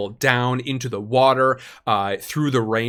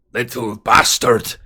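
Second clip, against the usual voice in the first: angry curse; 6 dB louder than usual. Acted. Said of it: "says Carl".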